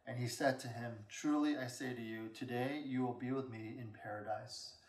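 even reading voice, little acting of the quotes; scripture reading. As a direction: read the passage aloud soberly. Reads scripture aloud.

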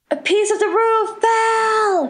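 high panicked mock shriek; frightened student's high scream; retold scream. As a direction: yell it in terror as the ceiling falls. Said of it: "Somebody screamed".

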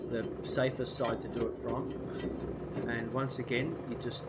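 blocked nose, nasal from a cold. Real, not acted. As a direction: talk through a stuffy nose. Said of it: "hopefully my nasally voice will have".

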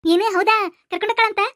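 eager disbelief, voice jumping up; delighted surprise. Acted. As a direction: perk up at the good news. Boy hears of dinner invitation.

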